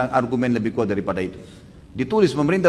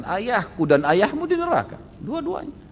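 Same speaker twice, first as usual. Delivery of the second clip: grave verdict; 10 semitones higher, slower than usual. Retold or imitated. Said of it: "sambil Nabi mengatakan".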